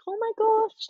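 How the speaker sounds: high-pitched, amazed gasp of words; retold shock. Surfer reliving the team manager's welcome call, in shock. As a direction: re-enact your shock, pitch leaping up. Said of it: "I was just in such shock".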